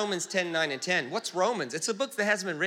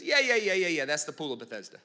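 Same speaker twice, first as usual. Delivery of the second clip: uninterested brush-off; 3 semitones lower than usual. Retold or imitated. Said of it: "how uninterested he was".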